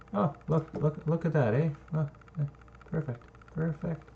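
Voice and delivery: high, delighted oh look; excited. Real, not acted. Builder delighted by his map, gushing excitedly. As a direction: gush over the perfect result.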